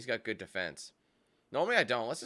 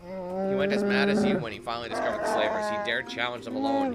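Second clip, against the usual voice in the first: often higher, haughty chieftain read; lightly voiced proud alien chief; scheming Wookiee chieftain; 7 semitones higher, 4 dB louder than usual. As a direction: lord it over your exiled brother. Voices Chundar in game scene.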